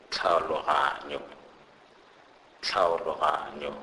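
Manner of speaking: "tlhaologanyo" opening like the CL in sclerosis; "tlhaologanyo" with a CL-like first sound; TLH sound demonstrated. Shown as a demonstration. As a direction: model "tlhaologanyo" as one careful example word. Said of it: "pronounced like the C L in the English word sclerosis".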